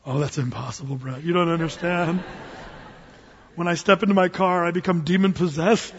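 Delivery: low-voiced objector; doubting bro. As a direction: play a dude who says it can't be done.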